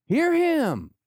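very high, loud cry; soaring, ringing proclamation; booming voice from heaven. Acted. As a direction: call it out at full pitch like a heavenly command. Repeats God's command, escalating.

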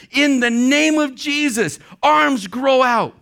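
high, loud, slow command in Jesus' name; commanding prayer. Retold or imitated. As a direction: order the arms to grow with fiery faith. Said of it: "and she said".

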